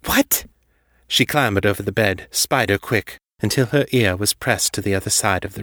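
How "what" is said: high, startled exclamation; sudden high-pitched astonishment; shocked gasp. A narrator's reading. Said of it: "Allura gasped".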